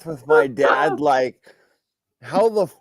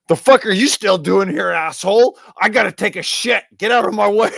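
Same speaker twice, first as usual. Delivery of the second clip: gruff dad; 4 semitones higher, 4 dB louder, faster than usual. Retold or imitated. Dad bursting in on son.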